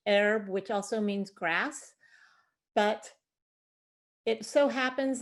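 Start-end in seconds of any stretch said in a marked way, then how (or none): 0.1-0.5 herbe said the French way, silent H; French pronunciation. Shown as a demonstration. Master gardener giving the word's origin, French pronunciation. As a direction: say "herbe," as the French word, no H sound. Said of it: "comes from the French".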